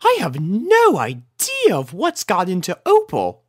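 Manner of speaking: high pony lady voice; puzzled lady. A narrator's reading. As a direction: wonder aloud, a bit embarrassed. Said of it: "soothed Rarity".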